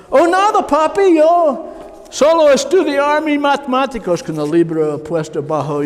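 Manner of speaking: high, sweet falsetto of a boy playing innocent; innocent son. Teenage son lies to his father, high fake-innocent voice.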